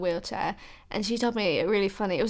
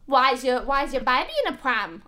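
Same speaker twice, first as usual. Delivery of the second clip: poor Scottish accent attempt, pitched high; 4 semitones higher, 3 dB louder than usual. Retelling a doctor's question, faltering attempt at a Scottish accent. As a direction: try and fail at a Scottish accent. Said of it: "I can't do a Scottish accent".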